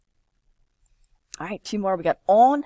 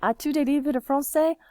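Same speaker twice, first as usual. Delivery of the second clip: modelled question; 8 semitones higher, 3 dB louder than usual. Shown as a demonstration. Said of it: "teacher models the question".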